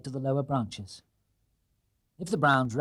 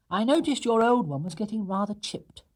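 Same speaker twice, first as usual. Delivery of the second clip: higher bear voice; 8 semitones higher than usual. Acted. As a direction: explain the gift. Paddington voiced.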